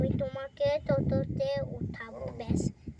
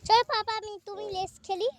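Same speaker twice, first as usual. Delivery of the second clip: pleading; 4 semitones higher than usual. Real, not acted. Child pleading with father.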